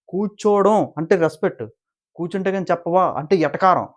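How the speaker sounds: high, pointed mock argument; imitating an irked housemate; acted indignant retort. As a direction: push back with lifted pitch. Acted retort in retold quarrel.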